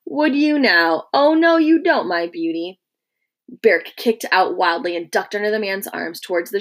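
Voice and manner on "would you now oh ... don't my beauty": slow, higher, louder sharp warning; a soldier's sudden sharp check on a captive; sharpening. A narrator's reading. Legionary catching the escaping prisoner, sharp warning. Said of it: "and then sharpening".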